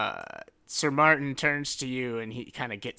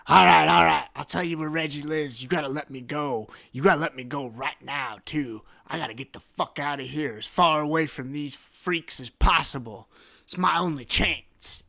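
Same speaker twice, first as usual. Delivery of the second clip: panicked pleading; 3 semitones higher, 9 dB louder than usual. Acted. Captive gives in, begging release.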